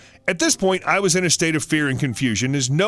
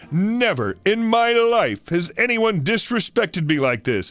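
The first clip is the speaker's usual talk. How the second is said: slow, outraged entitled shopper; slow, mock-offended customer tirade; indignant customer; slower than usual. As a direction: drag out the outrage at the kid. Angry customer berates narrator.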